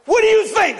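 mock angry daughter. Daughter quoted, high and loud.

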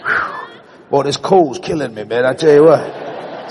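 breathy whew then a low mutter; a man choking back tears, mock casual; embarrassed man hiding tears. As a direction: pretend it's just a cold, hide the tears. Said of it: "They go".

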